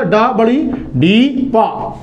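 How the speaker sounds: डा बड़ी डी पा blended slowly, sound by sound; slow blending. Shown as a demonstration. Teacher blending डीप slowly for students. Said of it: "double ई जो है वो sound डी में गया".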